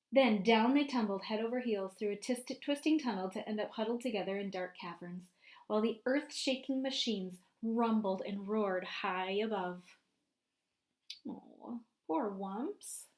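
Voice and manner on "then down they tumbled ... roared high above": lively storybook narration for a class; picture book read-aloud voice; reading to children. A narrator's reading. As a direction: read it out to the kids, painting the scene.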